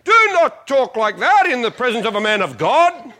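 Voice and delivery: mildly hammed-up indignant rebuke; mock indignation. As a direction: play at rising up in righteous indignation. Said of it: "rise up with indignation and say".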